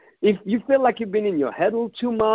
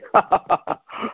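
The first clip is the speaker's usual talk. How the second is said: breathy burst of laughter; 3 semitones higher than usual. Retold or imitated. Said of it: "I would have bursted into laughter".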